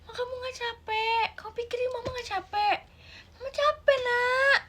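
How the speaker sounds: tearful mother. Acted. Mother tearfully asking child who will repay the money, high crying plea. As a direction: sob out how tired you are.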